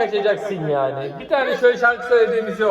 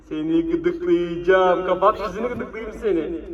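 playful tickle threat. Pretend. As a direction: drag it out teasingly.

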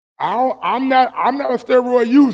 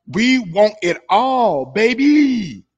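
lightly imitated funny British accent, last word stretched; mock Kell Brook accent; slower than usual. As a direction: playfully mimic the boxer's British accent. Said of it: "how Kell got that little funny ass accent".

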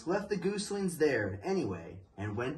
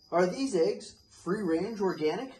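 raised, picky shopper's question; fussy question; 6 semitones higher than usual. Acted. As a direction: ask like a fussy gourmet. Bruce asks goose in story.

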